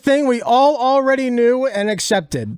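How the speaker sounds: high, loud, self-important proclamation; mock brave columnist. Mocking the op-ed writer, high loud faux-heroic announcement. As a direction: announce it like a daring hero. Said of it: "pretend like I'm being brave".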